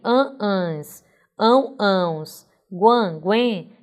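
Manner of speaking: AN, ÃO and GUAN with nasal vowels; nasal endings. Shown as a demonstration. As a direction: list an, ans, ão, ãos, guan, guen as nasal sounds. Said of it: "terminações em som nasal".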